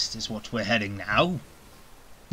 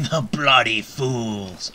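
laughing retry; 4 dB louder, slower than usual. Acted. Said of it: "I be very threatening".

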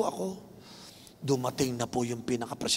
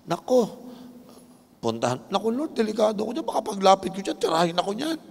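hesitant Ananias; 3 semitones higher than usual. Retold or imitated. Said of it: "Nagdadalawang isip si Ananias".

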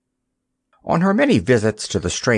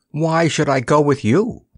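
weary; 5 semitones higher than usual. Acted. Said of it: "he said finally and wearily".

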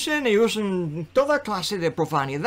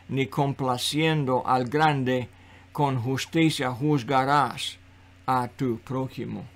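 measured, low reading from the Bible; lowered, steady recital of holy law; scripture reading; 3 semitones lower than usual. Real, not acted. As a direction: read the commandments out solemnly and evenly. Reads scripture aloud.

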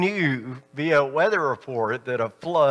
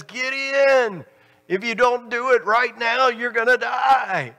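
urgent warning; 8 semitones higher than usual. Retold or imitated. Rescuers urge from boat.

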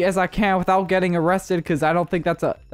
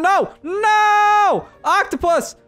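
frantic pleading; 11 semitones higher than usual. Real, not acted. Gamer frantically calling Doctor Octopus to the car. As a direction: beg him back into the car.

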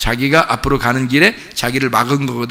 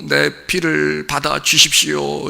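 mock plea; 4 dB quieter, slower than usual. Abel pleading to God.

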